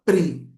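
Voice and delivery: "pri" said clearly as a single syllable. Shown as a demonstration. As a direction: clip out "pri" as a model syllable. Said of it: "Quando ela põe outra vogal". (sílaba "pri" bem articulada)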